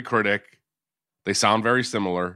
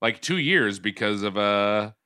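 stuffy sick voice; nasal from a cold; 2 semitones lower than usual. Real, not acted. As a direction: talk through a blocked nose. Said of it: "nasally voice".

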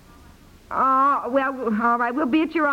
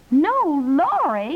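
slow, louder dismayed echo; drawn-out heartbroken question; 3 semitones higher, 4 dB louder, slower than usual. Acted. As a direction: let the loss sink in slowly. Repeats in dismay.

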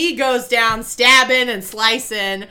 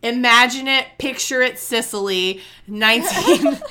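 mock narrator; 3 dB louder than usual. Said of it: "except it's not".

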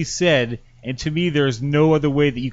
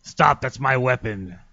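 low, slow doll voice; talking plush toy; 4 semitones lower, slower than usual. Retold or imitated. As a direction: do the toy's muddled voice. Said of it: "So this is what the doll says".

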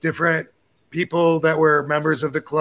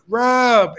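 calling out; 6 semitones higher than usual. Retold or imitated. Someone calling from afar.

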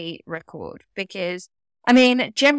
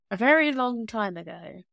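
mock epic tale. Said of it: "mock epic storytelling".

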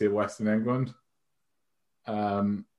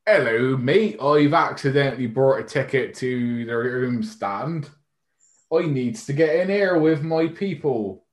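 put-on a failed stab at a Brazilian accent, drifting higher; mock Brazilian accent; 4 semitones higher, 4 dB louder than usual. Telling the turnstile guy, in a botched Brazilian accent. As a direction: try to sound Brazilian and miss badly. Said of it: "I can't even pretend to do a Brazilian accent".

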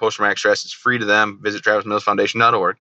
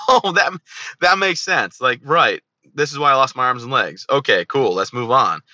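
higher, mock-cheerful sarcastic voice; mock acceptance; 3 semitones higher than usual. Veteran mocks the idea of a satisfying answer, sarcastic and higher. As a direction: play the fake relief of finally getting an answer.

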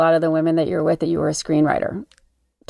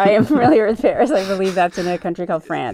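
sarcastic. Real, not acted. Dry joke about obvious Paris.

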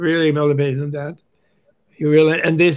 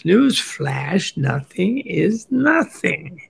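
emphatic self-reminder; 3 semitones higher, much slower than usual. Acted. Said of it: "remind yourself".

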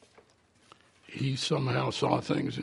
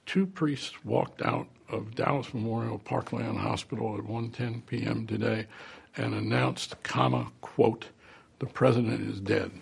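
dictating; 3 semitones lower than usual. Retold or imitated. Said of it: "He took dictation".

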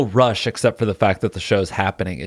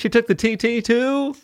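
surprised; 11 semitones higher than usual. Real, not acted. Shocked at car news.

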